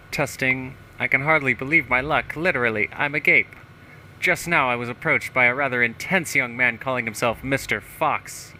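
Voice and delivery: lightly voiced pompous politician; a touch of hammed-up self-importance; self-satisfied mayor. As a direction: read it out as a boastful small-town mayor. Reads mayor's journal in character.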